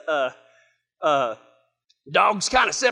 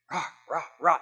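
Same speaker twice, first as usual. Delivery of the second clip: soft, muffled mock barks; imitated dog barking; 5 semitones lower, 5 dB quieter, faster than usual. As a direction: bark quietly, as heard from bed. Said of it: "suddenly the dogs start barking".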